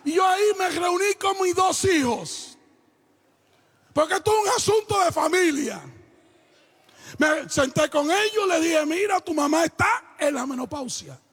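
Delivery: projected, emphatic pulpit storytelling; preaching. Acted. Father instructing his two children about their mother, preached emphatically. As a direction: drive the family lesson home to the congregation.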